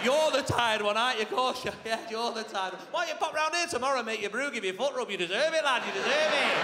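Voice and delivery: mock him with fake sympathy; sarcastic brother. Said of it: "him seething".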